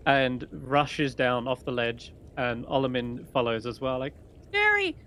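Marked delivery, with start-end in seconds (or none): 4.5-5.0 squeaky-high cry of mock fright; high-pitched shout. Game master voices a fleeing halfling, high-pitched shout. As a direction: shout it very high, like a scared child. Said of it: "in a high-pitched voice".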